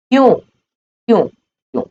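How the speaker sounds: high, drawn-out repeated question; insistent questioning. Shown as a demonstration. Teacher pressing students for their reason, insistent questioning. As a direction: let each single word ring out high and long.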